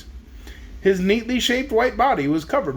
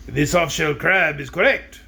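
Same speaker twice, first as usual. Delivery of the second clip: wrong voice. Shown as a demonstration. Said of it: "Oh, I'm sorry, that was the wizard".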